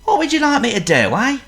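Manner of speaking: loud cockney wolf voice; chummy rough wolf. Acted.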